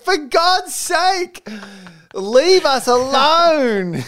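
high, very slow whine; exasperated Felix. Retold or imitated. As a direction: drag it out in despair.

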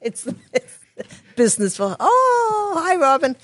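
laughing. Real, not acted. Laughing at Criminal Minds joke.

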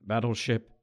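grand, very slow dramatic delivery; hammed-up sci-fi commander, slow and grand; Christopher Plummer line. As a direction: intone it like a stage actor. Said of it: "uttering one of the great lines".

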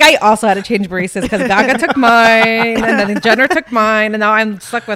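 a hint of pampered star; spoiled celebrity. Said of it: "You're like".

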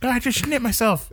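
high, giggling joke voice; silly high voice. Pretend. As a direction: play it squeaky and silly.

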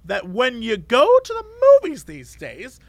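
put-on chatty old lady voice. Imitating chatty customer.

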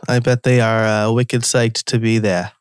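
playful put-on Boston accent. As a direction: say it like a Boston local, dropping the R's. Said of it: "that's my best Boston accent".

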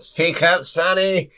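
put-on high, loud old codger yelling; cranky deaf old man. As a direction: yell it like a deaf grandpa. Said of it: "old man shouting at grandson".

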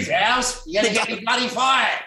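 playful high-pitched protest through laughter; hammed-up laughing grievance; mock complaint. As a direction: plead with your co-star in mock outrage. Acted retort to Alf Stewart.

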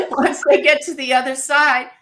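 real laughter through the words; laughing while talking. Real, not acted. Laughing at spirit's joke.

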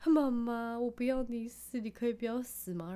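a lightly voiced small child pleading; mother voicing her son's worried plea; imitating her little son. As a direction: mimic a four-year-old begging mum not to die.

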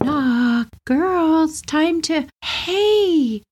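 high, sing-song mom who then breaks into a laugh; cheerful mom. Retold or imitated. Mother hums, knocks, then sees the broken chair. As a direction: hum down the hall, then stop short. Mom coming down hall singing.

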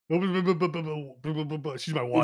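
slow drawn-out mock line through a laugh; mock movie line. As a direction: mimic the actor's line slowly, laughing. Mocking actor's line, laughing.

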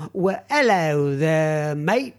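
hammed-up London greeting, drawn out; mock London accent, rising on the last word; bad London accent. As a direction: put on a badly faked London accent. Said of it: "that's a really bad London accent".

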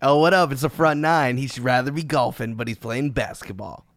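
lightly voiced teasing impersonation; mocking co-host impression. Teasing the co-host with his new nickname, light mocking impression. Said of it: "That's you. It sounds like you".

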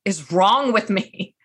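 slow, mildly anguished question; understated imitation of someone distraught; retold weeping client. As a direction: draw out a client's despairing question, lightly imitated. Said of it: "a weeping Zoom, I called it".

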